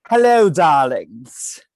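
breathy vintage purr. Pretend. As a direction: greet them like a glamorous old-time starlet. Campy diva greeting on intro.

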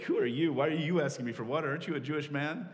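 a touch of a startled woman pushing back; incredulous woman. Retold or imitated. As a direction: toss the questions back at him in mild disbelief. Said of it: "the woman's defensiveness".

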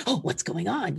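easy, unbothered curious dog; laid-back pup voice; casual dog voice. Pretend. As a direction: voice the relaxed dog shrugging it off. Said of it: "Lycan's more like".

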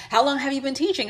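high, chatty question; imitated curious worker. Restaurant worker questioning a supposed teacher, mock curious. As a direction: pitch it up like polite prying. Voicing workers quizzing her.

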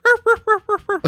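very high yappy barks; squeaky puppy yaps; dog barking. Retold or imitated. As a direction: bark like a little puppy. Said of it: "the brunette starts barking".

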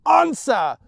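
high, loud demand; mad scream. Acted. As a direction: scream it at the boy. Mad mother demands answer.

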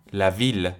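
la ville with a clearly sounded L; "ville" ending on a true L, not a Y; L pronounced. Shown as a demonstration.

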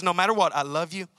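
loving reassurance. Shown as a demonstration. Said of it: "in a package that says".

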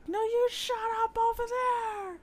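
high-pitched bickering cartoon creature; mock scolding in a high character voice; cartoon animal voice. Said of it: "those other ones that were like".

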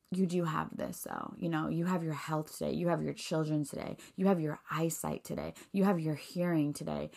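hushed, tender reminder of blessings; gentle voice of God. Pretend. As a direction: speak to her softly, like comforting reassurance. God reassuring her, imagined voice.

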